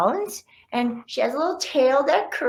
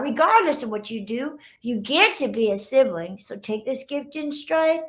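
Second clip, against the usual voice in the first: gentle read-aloud teaching a lesson; story narration. A narrator's reading. Author reading the lesson to kids, gentle narration. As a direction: read it like a picture book moral.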